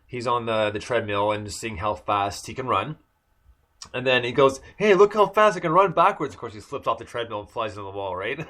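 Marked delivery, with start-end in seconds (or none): 4.8-6.3 higher and louder, playing the cocky hero; show-off boast. Barry showing off to Felicity on the treadmill, a higher, louder boast. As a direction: crow it out like a showing-off speedster.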